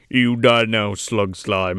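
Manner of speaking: low-pitched mock warrior threat; Norm. Riffing as the gnome facing an enemy, low mock threat. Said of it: "he talked like Norm".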